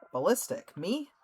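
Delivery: a hammed-up who, me; mock disbelief. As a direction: play innocent, shocked anyone would ask. Echoing accusation in mock disbelief.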